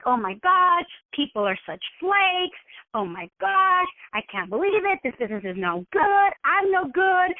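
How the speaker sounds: hammed-up pouty whine; mock moaning. Business owner feeling let down by guests, mock moaning. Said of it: "pout and cry and moan".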